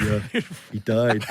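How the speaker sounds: a mock Canadian accent through laughter; imitating Canadian gossip, half laughing; a light Canadian accent, laughing. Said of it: "Every story is".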